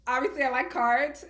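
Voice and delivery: laughing. Real, not acted. Laughing while talking about herself.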